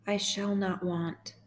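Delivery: slow, measured psalm reading with long pauses; guided meditation. Acted. Host leading sad listeners through Psalm twenty-three, slow guided meditation. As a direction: read gently line by line, leaving space to repeat.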